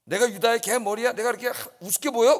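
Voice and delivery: how dare you look down on me; indignant retort. Acted. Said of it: "분하여 그랬습니다".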